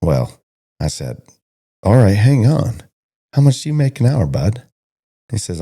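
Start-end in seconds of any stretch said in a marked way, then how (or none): 1.8-4.6 higher and louder, cutting him off: how much an hour, bud?; incredulous challenge. Retold or imitated. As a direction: stop him short, pitch jumping up in disbelief. Retelling challenging the cowboy.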